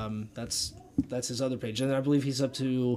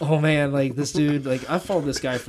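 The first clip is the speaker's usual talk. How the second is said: loud, giddy starstruck gush; fanboy excitement; 3 semitones higher, 6 dB louder than usual. Retold or imitated. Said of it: "half fanboyed myself. Like, I'm like".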